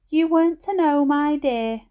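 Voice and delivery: a frail grandmother telling how she fell; croaky old granny. A narrator's reading. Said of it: "Her voice was croaky and her speech a little slurred".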